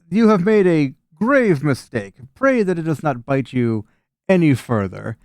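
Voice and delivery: lightly voiced ominous warning; voices in the trees. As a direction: pronounce a grave warning. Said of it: "you hear voices in the trees".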